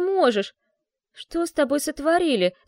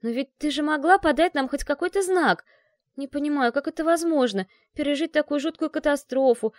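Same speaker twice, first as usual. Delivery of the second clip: agitated pleading; 6 semitones higher, 4 dB louder than usual. A narrator's reading. Heroine upset at friend's coldness.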